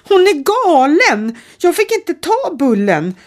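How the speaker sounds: out of breath, high and loud; girl breathless after fleeing; panting. A narrator's reading. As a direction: gasp it out after running. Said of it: "flåsade Danja".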